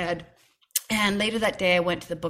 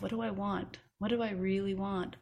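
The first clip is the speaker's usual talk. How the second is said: mantra; 6 dB quieter than usual. Retold or imitated. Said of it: "it was almost a mantra".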